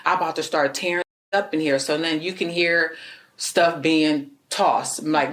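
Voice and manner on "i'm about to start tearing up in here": mock angry yell. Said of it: "he started yelling again".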